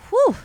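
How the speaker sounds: loud winded exhale; breathless whew. Real, not acted. Catching her breath while telling her birthday story, loud whew. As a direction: puff out a real tired breath. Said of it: "she's, like, breathing hard".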